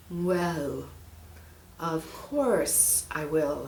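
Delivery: slow, sly snake voice. Acted. Snake pretends to help, slow and sly. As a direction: feign kindness, slowly.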